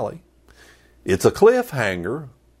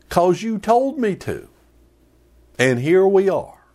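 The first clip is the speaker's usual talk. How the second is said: whiny complaint; 2 semitones higher than usual. Retold or imitated. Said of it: "So now Jonah is going".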